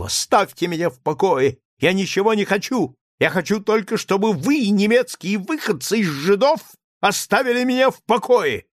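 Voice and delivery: high, loud frantic shouting; frantic rage. A narrator's reading. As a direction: lose all control and yell. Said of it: "уже не понимавший, какие он слова". (в исступлении кричит)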